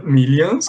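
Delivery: millions said with a clear A sound; model pronunciation. Shown as a demonstration. Teacher correcting student's millions pronunciation. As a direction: say millions slowly, vowel like A. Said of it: "com som de A".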